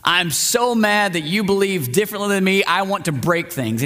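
high, hammed-up angry whine; mock angry rant. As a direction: play a petulant angry mob. Voicing angry townspeople.

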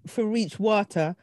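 slow, unsure Jamaican reading; attempted Jamaican patois. Shown as a demonstration. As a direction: pick through written Jamaican patois haltingly. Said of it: "can you please do the Jamaican".

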